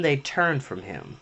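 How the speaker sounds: ordinary delivery, nothing marked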